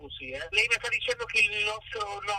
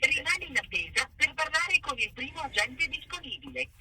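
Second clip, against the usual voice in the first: automated phone message; 5 semitones higher than usual. Acted. Automated phone line greeting.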